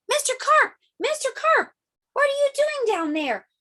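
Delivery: high, loud worried shout; yelling. Acted. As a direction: call down into the water in alarm. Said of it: "I yelled".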